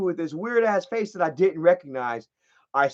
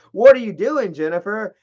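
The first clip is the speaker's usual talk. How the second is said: retold confronting question; 3 semitones higher, 6 dB louder than usual. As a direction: demand it, acting out the moment. Quotes himself confronting Jennifer.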